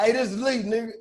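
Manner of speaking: lightly voiced soft-spoken tough talk; soft tough guy. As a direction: imitate a mild-voiced guy warning you off. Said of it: "softest nigga I ever talked to".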